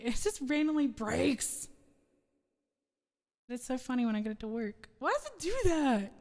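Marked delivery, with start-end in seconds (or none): 5.0-6.1 higher autotuned voice; autotune voice. Real, not acted. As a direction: push it through autotune. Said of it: "Autotune is so finicky".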